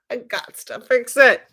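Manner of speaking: put-on hammy Russian accent; mock Russian accent. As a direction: play an emphatic Russian who must fix it. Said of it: "I'm Russian".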